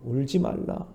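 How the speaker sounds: normal talking voice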